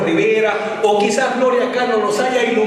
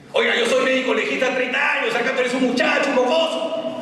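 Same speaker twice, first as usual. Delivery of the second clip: higher, offended scolding of a youngster; higher indignant rebuke; indignant old examiner; 5 semitones higher than usual. Retold or imitated. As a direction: put the young upstart in his place.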